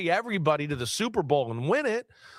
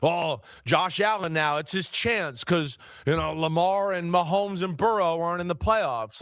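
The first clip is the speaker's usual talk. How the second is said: mocking the pundits; 3 semitones lower than usual. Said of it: "sick of hearing this whole, like".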